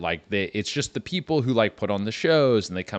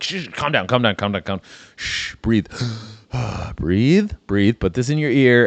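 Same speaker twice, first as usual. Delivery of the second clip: soothing. Acted. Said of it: "I'm like".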